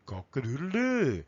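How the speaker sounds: lightly crowed, rising then falling; rooster crow. Acted. Teacher repeating the English rooster sound, crowing. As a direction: crow it out for the class. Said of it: "el rooster says".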